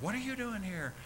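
surprised. Retold or imitated. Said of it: "and they looked".

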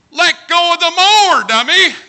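loud, high self-scolding shout; yelling at himself. Retold or imitated. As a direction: snap at yourself to let go. Scolding himself while falling.

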